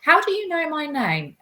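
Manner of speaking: high, indignant telling-off; outraged retort, acted out; fiery anger. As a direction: re-enact confronting him, pitch leaping up. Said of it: "I can be quite fiery".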